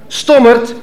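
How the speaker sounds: hissed insult. A narrator's reading. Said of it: "siste hij".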